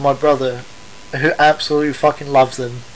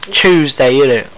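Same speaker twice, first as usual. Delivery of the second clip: mock British accent. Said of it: "Americans think we speak like that".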